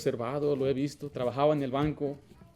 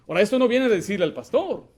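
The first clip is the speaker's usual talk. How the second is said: usual speaking voice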